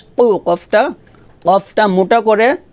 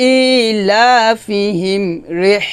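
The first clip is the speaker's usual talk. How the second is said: slow recitation; much slower than usual. Shown as a demonstration. Joins the syllables.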